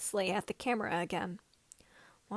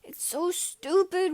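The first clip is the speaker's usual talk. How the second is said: frustrated rant; 9 semitones higher, 6 dB louder, slower than usual. A narrator's reading. Ranting about missing landing gear.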